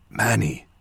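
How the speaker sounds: soft teasing whisper. A narrator's reading. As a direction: whisper the nickname to tease. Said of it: "Kidal whispered".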